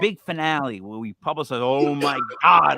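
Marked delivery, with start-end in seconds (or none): 1.6-2.8 drawn-out, louder mock astonishment; mock shocked reveal. Comedian spoofs the big finale's publicity, mock shocked. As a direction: play up a slow, shocked reveal. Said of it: "like, you know, shocking reveals".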